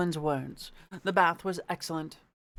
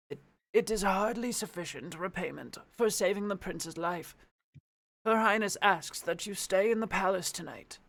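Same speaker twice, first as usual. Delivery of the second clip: put-on old man voice. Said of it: "my Old Man voice".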